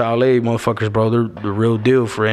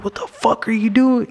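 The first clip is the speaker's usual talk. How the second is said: higher, slow, outraged sister-in-law; imitating sister-in-law; 11 semitones higher than usual. Sister-in-law rushing out at him over red shoes, higher mock scold.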